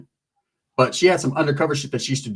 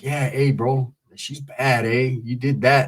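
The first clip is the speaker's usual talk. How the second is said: low, softer imitation of an admiring guy; lightly voiced homie, low and confiding; imitated Southsider; 4 semitones lower, 4 dB quieter, slower than usual.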